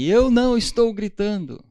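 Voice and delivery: high, loud protest that you're not yelling; mock shouting denial. Spouse denying yelling in a mock argument, shouting. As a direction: yell back that you aren't yelling. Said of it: "Quem nunca ouviu alguém gritar assim".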